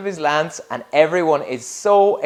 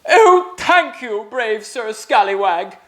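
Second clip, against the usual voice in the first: rejoicing; 6 semitones higher, 3 dB louder than usual. Acted. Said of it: "rejoiced the king and queen".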